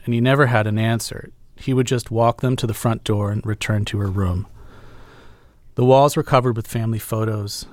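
measured literary reading aloud; story narration. Acted. Interviewer reading the author's passage about a dying mother, story narration. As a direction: read the prose evenly, with pauses between sentences.

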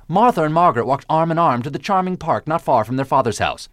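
every consonant crisply articulated, stage-actor style; crisp diction exercise. Shown as a demonstration. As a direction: recite it like a vocal drill, each s and t sharp. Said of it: "It is indeed".

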